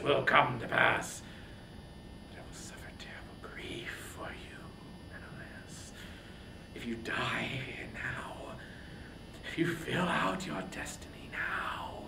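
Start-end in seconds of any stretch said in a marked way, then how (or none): 2.3-12.0 soft, broken whisper; a king whispering dread over his brother; grieving whisper. Acted. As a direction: whisper the fear of losing him.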